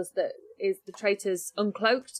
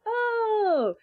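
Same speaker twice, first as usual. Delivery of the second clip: surprised oh; 12 semitones higher than usual. Retold or imitated. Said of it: "people are like".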